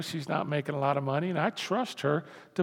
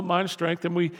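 usual speaking voice

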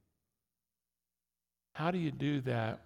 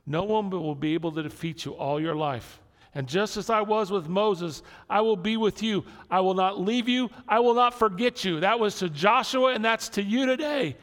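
much higher, louder climactic preaching; full-force preaching; 8 semitones higher, 7 dB louder than usual. Acted. Pastor preaching God's promise to the congregation, at full force. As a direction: build to a ringing proclamation.

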